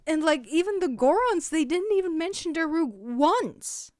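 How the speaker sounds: loud, rising frustration; real upset rant. Real, not acted. Gamer ranting at the developers, growing angry. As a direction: vent at the game makers. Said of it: "Okay, I'm getting upset".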